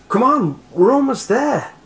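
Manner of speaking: loud, very high yell; frantic high-pitched holler; urgent shout. A narrator's reading. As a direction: yell to spur a struggling friend on. Boy urging friend while fleeing.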